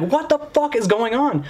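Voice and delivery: very high, drawn-out retold exclamation; horrified disbelief. Reacting to the mess in the parking lot, horrified. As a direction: stretch it out in mock horror.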